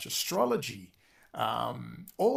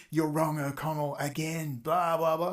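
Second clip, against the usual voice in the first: mock heckler. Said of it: "how many of you".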